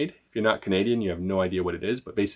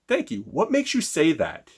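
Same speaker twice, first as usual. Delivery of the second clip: calm, assured comeback; unbothered and steady; poised salesperson handling a jab; confident reply; 4 semitones higher than usual. Shown as a demonstration. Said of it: "did I at least sound confident".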